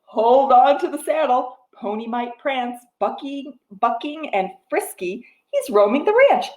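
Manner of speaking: rhythmic picture-book reading; reading to a toddler. Acted. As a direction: read the rhyme to little ones. Reads picture book rhyme.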